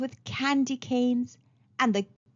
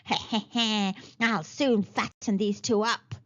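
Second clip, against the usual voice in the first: mild cackle. Acted. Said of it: "she cackled".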